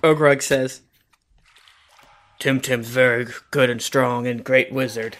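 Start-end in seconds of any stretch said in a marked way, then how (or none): 2.4-5.2 lightly voiced bugbear, pitched lower; a hint of a low monster voice; fake bugbear. Player makes a fake bugbear praise him, lightly voiced bugbear. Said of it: "Urgrog is my, um, fake bugbear".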